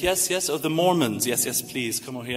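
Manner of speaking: herd newcomers along in a lightly imitated British accent; Mister Bean. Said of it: "I can't do a British accent well, but I try to".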